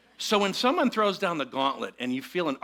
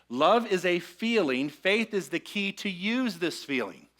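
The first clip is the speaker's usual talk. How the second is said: slowed down, each word laid out deliberately; slow, deliberate sermon delivery; slower; 4 semitones higher, 4 dB louder, slower than usual. Shown as a demonstration. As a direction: unpack it slowly for the room. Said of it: "unpack this one a little slower".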